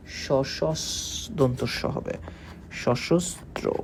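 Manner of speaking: সশস্ত্র drawn out slowly as শশোস্ত্রো; slow syllable-by-syllable pronunciation. Shown as a demonstration. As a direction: spell out সশস্ত্র slowly, sound by sound. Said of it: "তাহলে এটার উচ্চারণ হয় হলো এইরকম". (সশস্ত্র ধীরে ধীরে ভেঙে উচ্চারণ)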